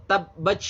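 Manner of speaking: TABBACH with a long sh-like release; mistaken CH ending. Shown as a demonstration. Teacher shows learners a second wrong reading, final T turned to CH. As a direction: end TABBACH on CH where T belongs. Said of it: "itu salah ya".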